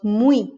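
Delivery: muy ending in an E sound; Y as vowel. Shown as a demonstration. Teacher showing learners muy with Y as a vowel. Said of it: "if it's acting as a vowel".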